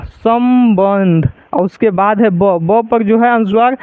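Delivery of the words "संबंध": संबंध drawn out very slowly, the nasal said as a clear म: सम-बंध; slow teaching demo. Shown as a demonstration. Teacher to students, showing the anusvara as म, very slow. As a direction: spell out संबंध syllable by syllable, slowly. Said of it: "अनुस्वार का मतलब ध्वनि यहाँ पे क्या आ रहा है, म".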